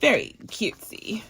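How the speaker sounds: breathy starlet purr, lightly done; a light Marilyn Monroe coo. Acted. Reading a budget card in a light starlet coo. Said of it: "like, Marilyn Monroe".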